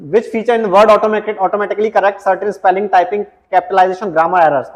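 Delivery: reading the question out slowly, word by word; slow, deliberate quiz read-out. Acted. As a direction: dictate the question slowly to the class. Reads the quiz question aloud.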